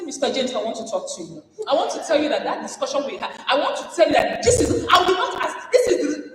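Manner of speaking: high, rushed, laughing through it; laughing mock confrontation. Woman leader confronting Mister James, laughing. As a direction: confront him while half laughing. Acted confrontation after meeting.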